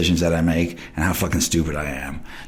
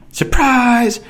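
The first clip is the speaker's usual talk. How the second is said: mock surprise; 4 dB louder than usual. Sarcastic reveal of withdrawal.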